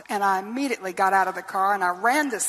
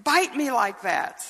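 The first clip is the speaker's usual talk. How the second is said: put-on higher, a young girl's pleading question; lightly voiced child asking mother why; hurt young girl; 6 semitones higher than usual. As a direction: ask like a bewildered little girl. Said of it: "I asked my mother".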